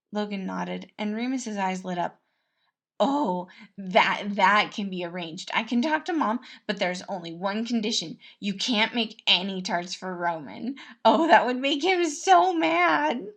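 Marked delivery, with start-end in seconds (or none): 3.0-13.3 loud mischievous prince voice; Remus, gleeful schemer. Acted. Prince plotting against Roman, loud and gleeful. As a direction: relish annoying his brother.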